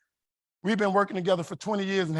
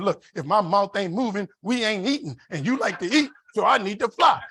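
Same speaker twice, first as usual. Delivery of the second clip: mock indignant arguing; 3 semitones higher, 5 dB louder than usual. Husband arguing with wife that he must fly, mock indignant. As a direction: plead your case with comic exasperation.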